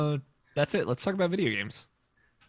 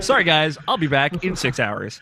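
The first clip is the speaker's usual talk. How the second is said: laughing; 4 semitones higher, 5 dB louder than usual. Retold or imitated. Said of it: "He's like".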